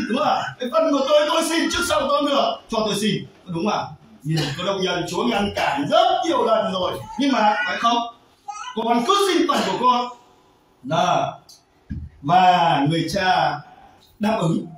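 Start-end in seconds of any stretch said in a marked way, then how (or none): none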